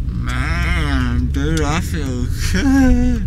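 slow, spaced-out and slurred; drugged and dreamy. Real, not acted. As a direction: float through it, still under sedation. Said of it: "you've still got the effects of the anesthetic".

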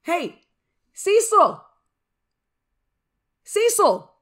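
high, loud shout for a familiar; calling out. Acted. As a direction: holler the name to summon a bird. Calling grandma's crow familiar.

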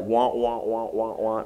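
lightly imitated wordless drone; Charlie Brown teacher. Cartoon teacher at the front, mock droning. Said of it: "the teacher at the front is like".

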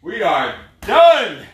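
slow, stretched, triumphant "We are done"; drawn-out finish call. Acted. Coach to class at the end, stretched victory call.

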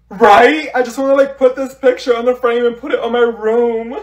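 high, eager squeal of agreement; excited gushing. Acted. Girl showing off her boyfriend's picture, excited gushing. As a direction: gush like a smitten schoolgirl.

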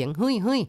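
ฮึ่ยฮึ่ย เสียงสูงขึ้นแบบคนไล่วัว; ทำเสียง ฮึ่ยฮึ่ย ต้อนควายให้ชัด; เลียนเสียงไล่ควาย. Shown as a demonstration. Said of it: "เขาจะออกเสียงฮึ่ยฮึ่ย". (เลียนเสียงชาวอีสานไล่ควาย ฮึ่ยฮึ่ย)

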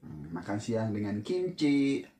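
slurping noodles while speaking; talking mid-bite; mouth full of noodles. Real, not acted. Seen 1: Noodles held up first; in mouth from 2.6 while speaking.

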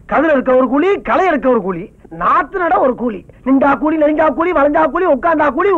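farmer's rhythmic, complaining lament; moaning about a hard life; grumbling lament. Acted. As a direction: grumble bitterly down a list of grievances. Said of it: "ஏன் இப்படி புலம்பிட்டு இருக்கீங்க".

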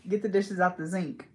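"zinc" with a buzzing Z for sink. Retold or imitated. Imitating a man's annoying habit, sink said as "zinc". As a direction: start "zinc" with Z where sink is meant. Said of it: "He would say zinc instead of sink".

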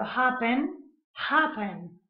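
"happen" stressed on the first syllable; "happen" as HAP-pen. Shown as a demonstration. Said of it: "el acento está en la primera sílaba".

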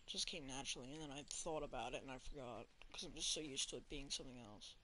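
soft, low-pitched murmur to self; near-whispering. Real, not acted. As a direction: keep it hushed and low, as if without meaning to. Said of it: "I don't know why I'm whispering".

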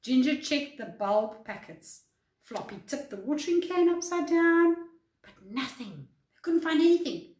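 lively, clearly paced read-aloud; expressive bedtime story narration; children's story reading. A narrator's reading. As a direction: read a picture book to young children. Reads a picture book to children.

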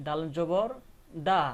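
loud mark name, then a separate দা; pronunciation demo. Shown as a demonstration. Teacher answering how dal with zabar sounds, pronunciation demo. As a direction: spell it out and land on a long দা. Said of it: "উচ্চারণ হবে কি".

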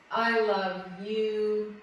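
very slow "I love you" leaning on "I"; slow tender affirmation. Shown as a demonstration. Teacher guides the class through an exhale, slow loving affirmation. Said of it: "a beautiful compliment to yourself".

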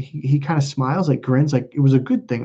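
ordinary talk, nothing marked

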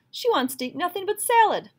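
high, loud, fed-up complaint; the cook grumbles about the vicereine's salad, exasperated. A narrator's reading. Scoffing disbelief.

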